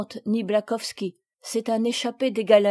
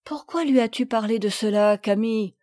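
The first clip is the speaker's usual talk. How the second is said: reproachful. Acted. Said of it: "d'un air de reproche".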